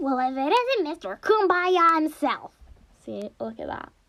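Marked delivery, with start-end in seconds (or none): 0.0-2.5 put-on high, lifted cartoon voice. Repeating a played clip line in Monokuma voice. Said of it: "I'll say a line in Monokuma's voice".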